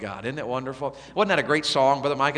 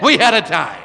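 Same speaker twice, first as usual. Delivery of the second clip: mock bragging shout; 5 semitones higher, 10 dB louder than usual. Retelling a bragging partygoer.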